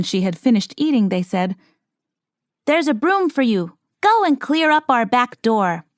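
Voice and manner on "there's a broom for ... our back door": lightly voiced dwarves, higher; a touch of little-man voice, a bit higher; gently voiced little men giving an order; dwarf voice. A narrator's reading.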